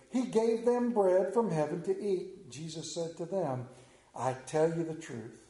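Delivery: measured, solemn Bible reading; scripture reading. Acted. Preacher reading John to his church, solemn and measured. Reads scripture passage aloud.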